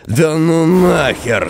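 high, slow exasperated cry; furious disbelief at the phone; angry outburst. Acted. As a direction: throw the words out in disbelief.

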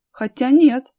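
high, loud second thought; alert, rising interest; perking up. A narrator's reading. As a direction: suddenly take back a dismissal. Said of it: "но тут же встрепенулся".

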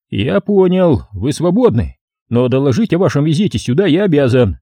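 concede, but stay officious; dutiful policeman. Acted. Policeman releases detective, mildly officious.

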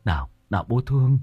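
lightly voiced father calming his son; tender comforting. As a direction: soothe the child, gently.

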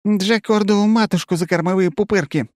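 high, loud stunned curse; stunned exclamation. A narrator's reading. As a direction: swear in shock. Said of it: "восклицает ярко номер один".

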